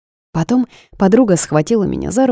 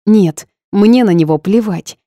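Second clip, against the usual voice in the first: loud, high-pitched dismissal; Eva loudly brushing off his opinion; 5 semitones higher, 6 dB louder than usual. A narrator's reading. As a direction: say it loud to shut him down. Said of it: "громко сказала я".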